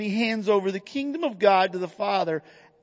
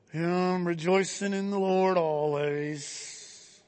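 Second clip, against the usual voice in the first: mock gritted-teeth delivery, quieter; 2 semitones lower, 5 dB quieter than usual. Acting out how people say the verse: imitating speaking through gritted teeth. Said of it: "said that with gritted teeth".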